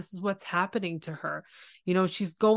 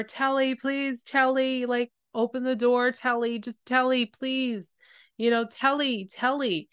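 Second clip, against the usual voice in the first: higher, imploring calls to a friend behind the door; pleading call; 6 semitones higher than usual. Retold or imitated. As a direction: beg her to open up, voice lifted. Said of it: "You can tell that she's so sad".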